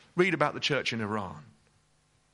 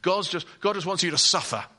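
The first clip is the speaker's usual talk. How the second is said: devil's voice; 4 semitones higher, 7 dB louder, faster than usual. Retold or imitated. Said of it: "The devil said".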